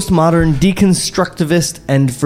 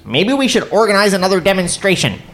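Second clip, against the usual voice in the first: self impression; 5 semitones higher than usual. Shown as a demonstration. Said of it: "That's my impersonation of myself".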